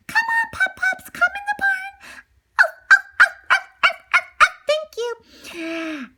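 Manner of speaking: high, sweet spaniel voice; friendly spaniel. Acted. Cocker spaniel inviting puppies in, high and friendly. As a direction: welcome the cold pups in kindly.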